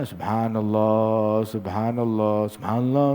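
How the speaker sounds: drawn-out chant that gradually shortens; steady, then hurrying. Shown as a demonstration. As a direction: start slow and stable, then begin to rush. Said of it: "awalnya stabil, begitu udah kehabisan".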